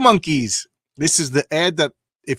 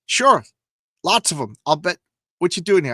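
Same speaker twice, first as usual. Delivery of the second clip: eager guard; 3 semitones higher, 5 dB louder than usual. Acted. Guard voice continues.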